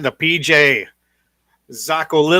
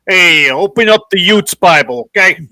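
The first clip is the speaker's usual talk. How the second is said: louder, put-on call to the youths; mock call to young kids; 3 semitones higher, 7 dB louder than usual. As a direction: call the kids to open up, playfully. Acted youth-speak Bible quote.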